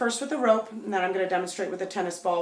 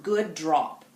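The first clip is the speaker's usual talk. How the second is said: calm praise; 3 semitones lower than usual. Shown as a demonstration. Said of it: "reinforce that original command with".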